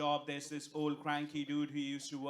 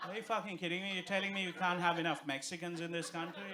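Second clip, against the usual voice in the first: higher, incredulous mock outrage; 3 semitones higher than usual. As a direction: play it as a fake-indignant complaint, pitched up. Comic rant about Guzman y Gomez.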